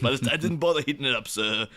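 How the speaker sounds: hammed-up petulant rant; teenager lashing out. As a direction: build from fast grumbling to a high-pitched outburst. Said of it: "he's like a teenager lashing out".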